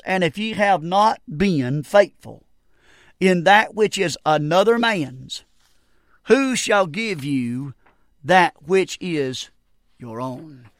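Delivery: slow, deliberate Bible verse with long pauses; scripture reading. Real, not acted. Preacher reading Luke to young preachers, slow and solemn scripture reading.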